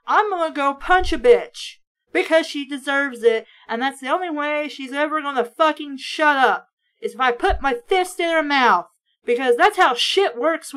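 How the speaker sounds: heated, loud rant; angry. Real, not acted. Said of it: "Yes, I'm pissed about it".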